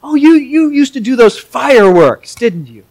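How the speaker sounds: lightly voiced hobbit, high and puzzled; a hint of a fussy little hobbit recalling the fireworks; Bilbo voice. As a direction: play Bilbo half-remembering an old friend. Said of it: "Bilbo's like".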